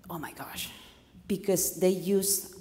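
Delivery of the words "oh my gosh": underwhelmed reaction. Retold or imitated. Coach plays native listeners hearing a dull greeting, underwhelmed. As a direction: drop it quietly, unimpressed. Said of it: "is like".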